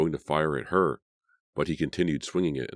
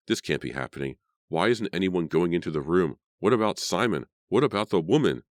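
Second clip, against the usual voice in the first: panic; 3 semitones higher, 3 dB louder than usual. Acted. Carrie's panicked thoughts rising.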